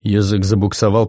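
usual speaking voice

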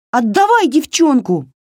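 put-on high, forceful girl's cry; high-pitched angry shout; shouted demand. A narrator's reading. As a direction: yell it, demanding her back. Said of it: "закричала Варя".

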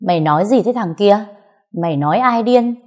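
angry retort. Acted. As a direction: snap back at him in outrage. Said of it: "nghiến răng chửi".

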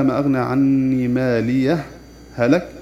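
ماليه recited slowly, then هلك. Shown as a demonstration. Teacher recites ماليه هلك for students, slow recitation. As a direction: recite the verse slowly, as a model. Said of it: "يجوز فيها السكت".

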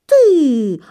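startled gasp. A narrator's reading. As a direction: yelp as if pinched. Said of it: "ахнула стрепуха".

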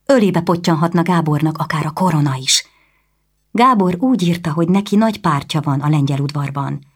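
a lightly voiced proud lady, rising indignation; a noblewoman growing upset; indignant noblewoman. Anna, questioning her brother's councillors, lightly voiced noblewoman getting agitated. Anna's voice, raised pitch.

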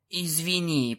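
quiet, pained groan of an apology. A narrator's reading. Injured stallion apologising to the princesses, quiet groan. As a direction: groan it out softly, hurt. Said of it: "простонал жеребец".

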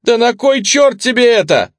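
shrill it out in terror; squealing. A narrator's reading. Captive man squealing at the woman aiming at him, panicked squeal. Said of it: "заверещал он".

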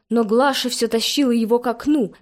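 ordinary delivery, nothing marked

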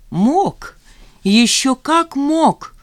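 high, loud, slow gleeful boast; mad, gleeful bragging, drawn out; gleeful interruption. A narrator's reading. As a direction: savour the boast, high and delighted. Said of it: "весело перебил он её".

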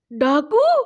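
loud. A narrator's reading. Farooq reacts to hearing of a robber, loud alarm. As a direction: cry out in alarm. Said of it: "بلند آواز سے کہا".

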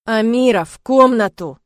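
loud, sharper command; sharper repeat. Acted. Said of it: "повторяет отец резче". (отец резко повторяет приказ дочери)

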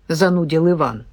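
plain reading voice

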